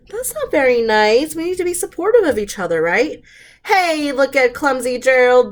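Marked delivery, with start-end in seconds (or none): 3.6-5.5 loud mocking taunt; sneering. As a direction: jeer at the clumsy giraffe. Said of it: "the animals all sneered".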